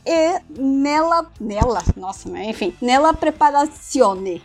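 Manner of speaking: hammed-up Italian accent; mock Italian reading a job ad; Italian accent portuguese. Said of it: "fazer o sotaque italiano".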